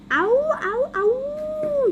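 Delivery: high, rising cartoon howls; dog howl. Dogman answering what happened, howling.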